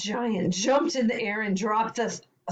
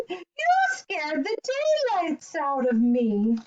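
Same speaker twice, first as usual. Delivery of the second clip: put-on higher-pitched frightened old woman; startled cry; 7 semitones higher than usual. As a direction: exclaim as if just spooked. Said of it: "cried the tiny old woman".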